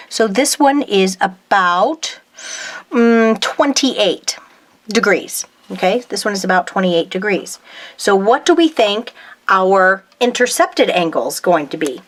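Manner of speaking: talking with a pen in her mouth; words round a pen held in the mouth; pen in teeth. Real, not acted. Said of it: "Sorry, I put my pin in my mouth".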